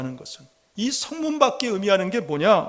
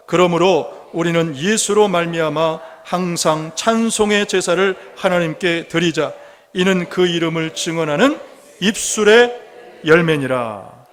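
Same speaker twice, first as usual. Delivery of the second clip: scripture reading; 2 semitones lower, 4 dB louder than usual. Acted. Leads congregation in reading the verse.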